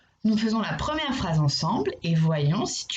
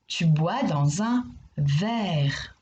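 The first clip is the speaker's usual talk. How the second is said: slow confident statement; 2 semitones lower, much slower than usual. Shown as a demonstration. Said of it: "Oui, tu bois dans un verre".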